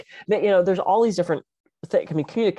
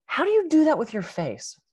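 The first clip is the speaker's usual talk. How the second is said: higher-pitched imitation of a puzzled questioner; baffled mimicry; 9 semitones higher than usual. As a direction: quote someone mystified, pitched up. Quoting the puzzled other speaker.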